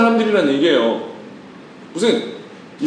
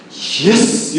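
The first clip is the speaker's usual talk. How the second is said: mock gloating; much slower than usual. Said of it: "이렇게 돼야 되거든요".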